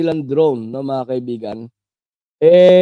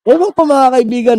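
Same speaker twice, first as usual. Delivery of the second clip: high, loud laughing through the words; 8 semitones higher, 5 dB louder than usual. Real, not acted. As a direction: burst out laughing while shrugging it off. Laughs at the crowd's demand. (natatawang sabi, malakas at mataas)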